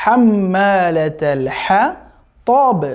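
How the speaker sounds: حمالة الحطب slowly, with soft breathed ح in both words. Shown as a demonstration. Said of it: "খুবই soft করে উচ্চারণ হবে".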